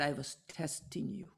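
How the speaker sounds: soft whispered reveal. Retold or imitated. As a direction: let him whisper it like a secret. Calmed guru reveals his test.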